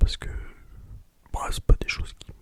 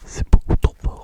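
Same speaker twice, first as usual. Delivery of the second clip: slower, louder whisper; 7 dB louder, slower than usual. Shown as a demonstration. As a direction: whisper it out slowly and fuller. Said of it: "dites-moi si c'est trop fort".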